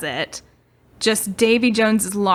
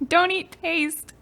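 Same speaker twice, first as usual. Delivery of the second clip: scolding mom; 10 semitones higher, slower than usual. Pretend. Parent scolding a child Davy.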